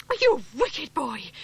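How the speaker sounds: high, loud, breathless scolding; furious wife defending her husband; angry and panting. A narrator's reading. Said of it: "panted Missus Penruthlin".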